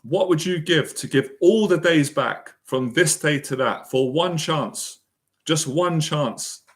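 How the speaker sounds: retold rallying speech. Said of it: "He says".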